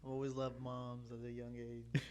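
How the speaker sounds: slow, drawn-out joke through laughter; laughing tease. Real, not acted. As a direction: tease a friend, cracking up. Mock echo of friend's line, laughing.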